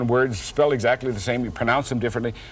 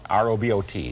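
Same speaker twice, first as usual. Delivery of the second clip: sounding out words; 3 semitones lower than usual. Shown as a demonstration. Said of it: "try robot".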